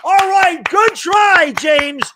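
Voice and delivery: high, hammed-up sarcastic pep; overly chipper fake consolation; mock encouragement. Sarcastically consoling injured Barkley with mock encouragement.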